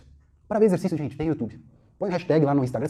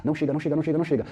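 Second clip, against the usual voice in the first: mock anxious wishing; much faster than usual. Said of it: "eu fico torcendo pro aluno não chegar".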